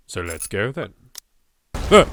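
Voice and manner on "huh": sudden high, loud huh; real startled huh. Real, not acted. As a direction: caught off guard by the opening. Startled by the game opening.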